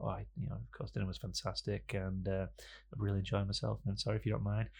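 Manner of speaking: soft, hushed mock-romantic patter; romantic talk. Wooing his date over tea, soft and hushed.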